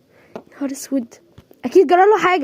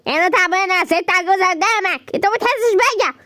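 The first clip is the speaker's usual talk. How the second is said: put-on old woman complaint.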